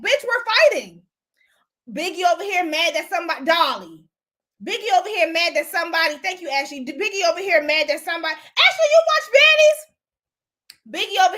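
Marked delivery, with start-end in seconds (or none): 0.0-1.0 "Bitch, we're fighting" hissed in a high whisper; mocking whispered comeback to a sore loser; whispered retort. 8.3-9.9 surprised. Real, not acted. Surprised at friend watching show.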